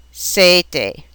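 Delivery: "sete" with a long AY, single T; elongated A sound. Shown as a demonstration. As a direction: say "sete" as SAY-tay. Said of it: "elongated A sound".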